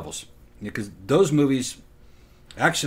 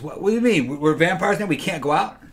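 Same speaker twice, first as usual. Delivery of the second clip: shocked disbelief; 5 semitones higher than usual. Retold or imitated. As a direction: play the stunned new vampire, half-hearted. Retelling vampire's shocked question.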